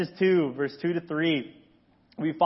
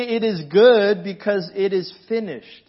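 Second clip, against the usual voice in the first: swaggering proclamation; 3 semitones higher, 6 dB louder than usual. Acted. God has swagger.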